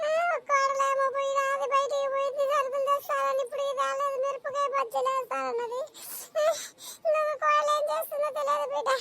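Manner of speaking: mildly tearful grumbling; put-on crying. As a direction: whine about the daughters-in-law through feigned tears. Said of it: "ఏడుస్తుంది". (కొంచెం ఏడుపు గొంతుతో నటన)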